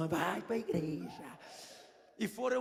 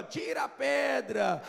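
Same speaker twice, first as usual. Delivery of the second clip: slow, called-out command; 5 semitones higher, slower than usual. Retold or imitated. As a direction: proclaim it like an order. Quoting Jesus's command. (ordem proclamada em voz alta e lenta)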